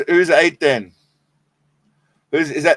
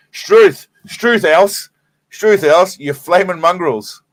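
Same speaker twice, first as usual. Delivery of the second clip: high, punchy mock indignation; mock Aussie outburst; 4 semitones higher, much slower than usual. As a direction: exclaim in hammed-up Aussie outrage.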